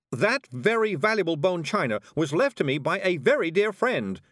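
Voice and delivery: high, loud indignant shout. A narrator's reading. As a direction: shout in alarm for the china. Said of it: "shouted Miss Level".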